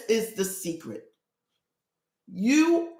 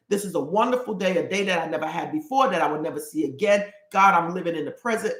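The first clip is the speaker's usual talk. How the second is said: rushed prayer; 4 semitones lower, faster than usual. Shown as a demonstration. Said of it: "you say".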